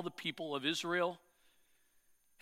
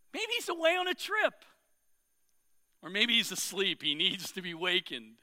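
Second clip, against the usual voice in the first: mocking. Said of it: "Elijah began mocking them".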